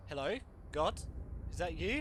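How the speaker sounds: loud mock call to God. Real, not acted. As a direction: call out, half joking. Mock calling out.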